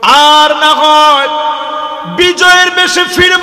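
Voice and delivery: rally the army before the fight; Khalid's battle speech. Retold or imitated. Khalid bin Walid vowing to his soldiers, chanting then shouting. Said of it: "Khalid বিন ওয়ালিদ বক্তব্য দিলেন".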